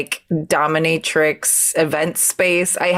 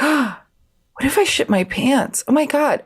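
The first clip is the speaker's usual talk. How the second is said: mock alarm; 8 semitones higher than usual. Friend's sudden worry, acted out.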